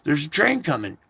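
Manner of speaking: urgent pleading, pitch jumping up on look up; pleading call. Retold or imitated. Pleading with the drivers on the tracks, urgent. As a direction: beg them to look up before the train hits. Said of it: "And I'm like".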